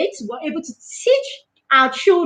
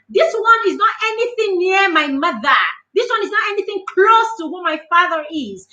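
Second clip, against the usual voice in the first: higher, scornful protest; acted-out indignation, pitch lifted all through; indignant dismissal; 5 semitones higher than usual. Child dismissing a name-caller as beneath the parents, higher and indignant.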